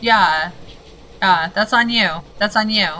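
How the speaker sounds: loud, punched on on, falling flat at each end; loud blaming. Real, not acted. Gamer scolding the game for its trick, loud bitter blame. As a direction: lay the blame hard and final.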